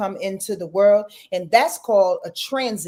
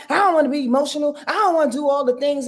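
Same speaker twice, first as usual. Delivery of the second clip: mock reluctant whine; 5 semitones higher, faster than usual. Imitating someone resisting emotion.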